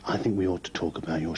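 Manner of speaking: hushed, secretive whisper. Acted. Plotting partner keeps the shares talk secret, whispering. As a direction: keep it under your breath so nobody hears.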